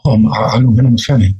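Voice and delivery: lightly imitated Australian accent; mock Australian accent. Quoting a producer's reply to hosts, light Australian accent. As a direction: quote him with a hint of Australian. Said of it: "That's your accent. That's the Australian".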